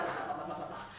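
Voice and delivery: low, soft filler babble; mumbled self-talk. Retold or imitated. Imitating him rambling to himself, mumbled. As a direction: trail off into muttered blahs. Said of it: "he's just talking to himself".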